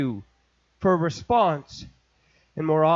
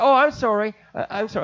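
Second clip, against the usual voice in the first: flustered apology; 2 semitones higher, faster than usual. Retold or imitated. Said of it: "I said".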